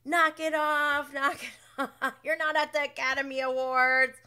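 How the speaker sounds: mock yell at a crying castmate; loud scold. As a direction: bark it at him to stop the act. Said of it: "they just go in on him".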